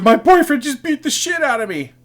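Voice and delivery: high put-on sobbing voice; mock sobbing. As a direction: imitate a sobbing 911 caller. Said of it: "she's sobbing".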